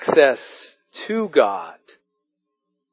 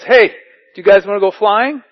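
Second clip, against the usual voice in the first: dad calling out; 4 semitones higher, 5 dB louder than usual. Retold or imitated. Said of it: "And my dad goes".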